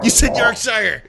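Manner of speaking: gleeful high-pitched crow; excited. Real, not acted. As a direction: pounce on the slip, delighted. Catching co-host's pronunciation slip.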